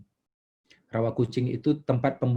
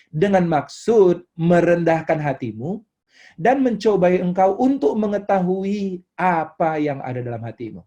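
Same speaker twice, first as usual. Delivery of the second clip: scripture reading; 2 semitones higher, 3 dB louder than usual. Real, not acted. Preacher reads the wilderness verse to congregation, declaimed. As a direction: read it out solemnly, then stretch the key phrases.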